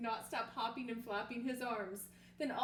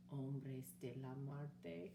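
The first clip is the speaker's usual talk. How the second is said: slow, much softer, trembling dread; shivering fear; 8 semitones lower, 8 dB quieter, much slower than usual. Acted. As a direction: say it like the name of a monster. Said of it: "with a shiverito".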